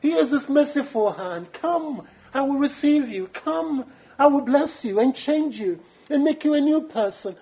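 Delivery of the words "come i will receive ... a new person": a higher, tender call to come; Savior's gentle invitation. Retold or imitated. Savior invites the weary sinner, lightly voiced, tender.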